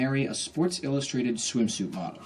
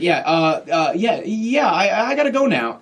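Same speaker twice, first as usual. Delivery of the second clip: hesitant, higher uneasy stammer; uneasy brush-off; 4 semitones higher, slower than usual. Retold or imitated. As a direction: back away awkwardly, looking for an exit. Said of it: "how that's gonna go wrong".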